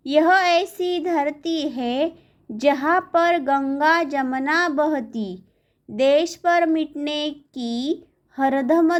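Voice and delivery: slow, stretched-out verse reading; poem recitation. Acted. Teacher reading verse on Ganga and Jamuna to pupils, slow recitation. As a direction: draw out the phrase endings in steady verse rhythm.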